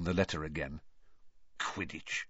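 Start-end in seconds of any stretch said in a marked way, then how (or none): 1.6-2.3 soft mutter under the breath, "Quidditch" barely voiced. A narrator's reading. Uncle reading the strange word, muttering under his breath. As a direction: say "Quidditch" low and quiet to himself. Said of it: "he muttered under his breath".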